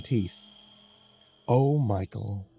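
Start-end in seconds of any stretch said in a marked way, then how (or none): 1.5-2.5 slow, exaggerated sorrow; mock sadness. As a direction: drag it out in fake pity. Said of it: "exaggerated sadness".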